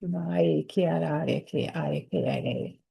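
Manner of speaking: low, murmured incantation in an unknown tongue; channeled language. Real, not acted. Channeling her guide to viewers, a murmured incantation. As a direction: let the sounds come as if channeled.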